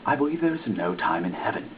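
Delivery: plain reading voice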